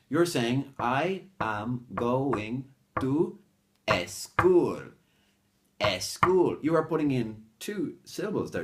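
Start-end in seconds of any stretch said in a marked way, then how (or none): 0.8-6.6 SCHOOL split into two loud beats, "EH-SCHOOL"; very slow, beat by beat, stressing the wrong "eh" before school; extra beat. Shown as a demonstration. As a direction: pound out "eh... school" as two syllables. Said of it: "you're putting in another beat".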